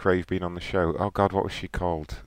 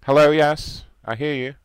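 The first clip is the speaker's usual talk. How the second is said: put-on caller voice; 9 semitones higher, 6 dB louder than usual. Prank caller voice on phone.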